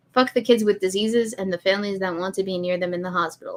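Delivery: normal talking voice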